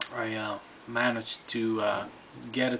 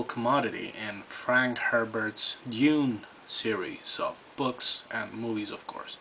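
talking around pipe stem; pipe in mouth. Real, not acted. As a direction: pipe clenched in teeth. Seen 2: Pipe stem held in mouth corner while talking from 0.9 s.

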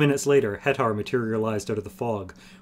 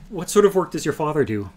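bright-pitched, louder polite inquiry; 5 semitones higher, 5 dB louder than usual. A narrator's reading. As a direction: ask with courteous interest. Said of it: "Lildoran asked politely".

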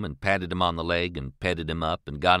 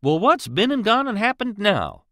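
much higher, louder frightened question; scared; 12 semitones higher, 5 dB louder than usual. A narrator's reading. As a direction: blurt it out scared. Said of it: "considerably scared".

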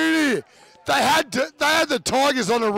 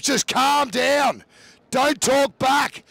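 mock coach telling troops; slower than usual. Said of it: "he'll be telling his troops".

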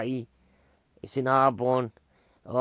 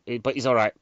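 firm, louder "he's all right" with the stress on "all"; loud reassurance; 6 dB louder than usual. Real, not acted. Reassures himself after the scene.

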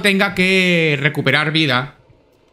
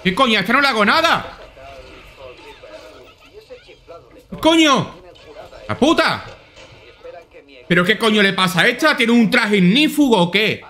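baffled outburst; 4 semitones higher than usual. Real, not acted. Enemy won't die.

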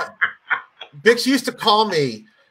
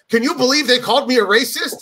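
higher-pitched mock indignation; retold outraged disbelief, pitched up; Steve Bix; 5 semitones higher than usual. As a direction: lightly imitate an incredulous complainer. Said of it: "and then he'd be like".

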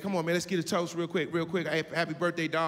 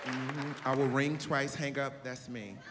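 calm and in total control; grown woman voice; 4 semitones lower, 3 dB quieter than usual. Retold or imitated. Voicing the older woman.

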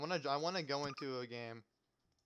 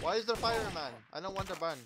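mock panic; 5 semitones higher, 4 dB louder than usual. Panicking about fire in game.

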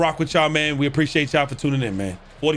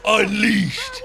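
hype shout; 4 semitones higher than usual. Pretend. Repeated hype call, cry.

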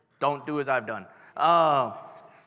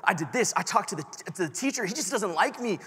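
higher, rising toward a tearful wail; teen pleading with his cousin, building to a mock cry; pleading excuses; 7 semitones higher than usual. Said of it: "I'm giving him excuse after excuse".

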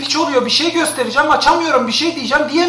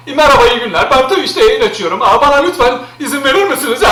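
mock polite request. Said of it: "falan mı diyeyim yani şimdi".

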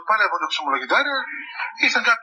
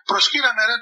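mock grand command, pitched higher; imperious command; 4 semitones higher than usual. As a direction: imitate a self-declared God demanding worship. Man demands worship as God. (επιτακτικά, τάχα μεγαλόπρεπα)

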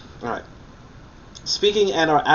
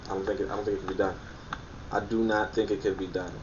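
stifled laugh; 3 semitones lower, 8 dB quieter, faster than usual. Real, not acted. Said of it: "can keep a straight face".

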